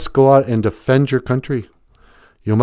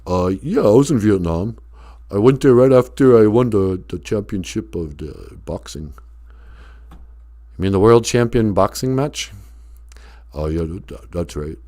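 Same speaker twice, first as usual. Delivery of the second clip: Stallone voice. Acted. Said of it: "sounded exactly like Sylvester Stallone".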